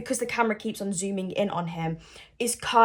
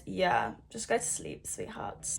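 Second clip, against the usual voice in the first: fading into a soft whisper; 3 semitones lower, 9 dB quieter than usual. Real, not acted. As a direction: hush them off to bed. Mock lullaby to the islanders.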